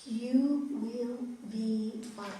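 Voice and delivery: slow, firm and certain; mean every word, drawn out; with conviction. Shown as a demonstration. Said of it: "Say it with conviction".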